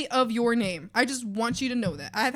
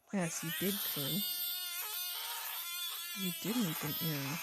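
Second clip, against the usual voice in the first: a hint of fake crying; mock sobbing hag; 5 semitones higher, 13 dB quieter than usual. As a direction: sniff it out like a wounded hag. Hag scolds quietly.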